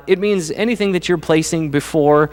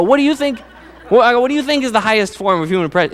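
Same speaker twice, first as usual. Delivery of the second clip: higher, laughing through the question; 8 semitones higher, faster than usual. Retold or imitated. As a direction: tease the kids while giggling. Teasing his kids about the show.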